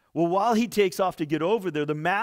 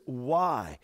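"Why?" said alone, lower and weighty; stress on why; 6 semitones lower than usual. Shown as a demonstration. Jesus asks Peter, "Why?" set apart and weighty. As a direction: let "Why?" hang. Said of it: "See, the word "why".

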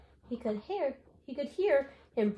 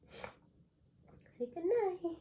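drawn-out; 8 semitones higher, much slower than usual. Real, not acted. Coaxing child goodnight.

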